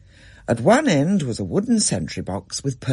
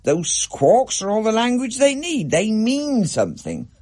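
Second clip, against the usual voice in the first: Dad; 10 semitones higher than usual. A narrator's reading. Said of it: "said Dad".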